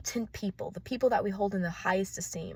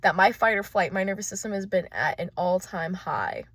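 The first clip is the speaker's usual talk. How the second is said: excited; 3 semitones higher, 8 dB louder than usual. Real, not acted. Agitated loud rant.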